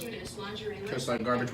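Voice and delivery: slow, laughing through a mouthful; chewing while talking; mouth full. Real, not acted. Chewing the gummy.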